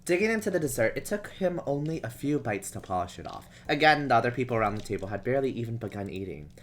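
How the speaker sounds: measured, even storybook reading; story narration. A narrator's reading. Reading a romance story to stream viewers, measured narration. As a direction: read it out as an unhurried narrator.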